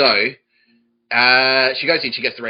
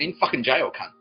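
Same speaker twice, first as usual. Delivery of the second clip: higher-pitched mock-angry comeback; indignant retort; 5 semitones higher than usual. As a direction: fire back at a stupid question. Acted retort to being asked.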